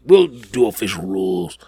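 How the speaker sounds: whispered aside. Acted. Host teasing viewers about the rules, whispered. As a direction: breathe it out with no voice.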